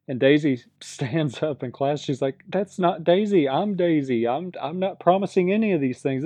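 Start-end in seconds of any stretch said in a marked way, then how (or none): 2.5-6.2 indignant protest. Retold or imitated. Daisy stands in class to correct the impostor, indignant and higher. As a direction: rise up and insist it's not you.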